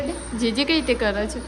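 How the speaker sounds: bright loud prompt with a rising end. Real, not acted. Coaxing baby to greet.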